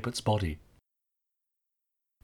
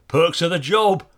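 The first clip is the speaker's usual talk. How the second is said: higher, louder chuckling quip; laughing; 7 semitones higher, 7 dB louder than usual. A narrator's reading. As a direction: joke it with a laugh. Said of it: "offered the other with a laugh".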